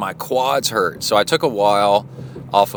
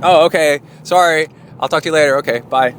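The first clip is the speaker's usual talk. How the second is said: higher pet-dog voice on the phone; fake dog voice; 6 semitones higher, 5 dB louder than usual. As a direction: imitate the dog signing off, pitched up. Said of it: "we do this fake voice for Kona".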